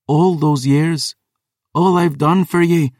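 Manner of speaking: high, slow, anguished plea; wounded daughter. Acted. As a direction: she begs her father to see what she's given. Daughter pleading with her father.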